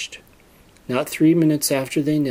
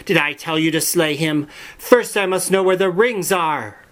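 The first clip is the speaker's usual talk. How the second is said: lightly voiced, higher witch queen rebuke; a hint of the scolding witch queen; 5 semitones higher than usual. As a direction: scold him with cold impatience. Witch queen scolds her consort.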